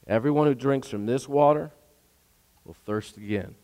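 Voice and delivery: soft, low and humble; gentle and humble. Retold or imitated. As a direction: bring her gently to understand. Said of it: "But Jesus is gently and humbly".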